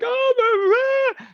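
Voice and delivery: high, loud drawn-out dismay; horrified trader. Retold or imitated. Trader sees the put explode, loud high mock horror. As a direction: let it rise in mock horror. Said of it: "you're like".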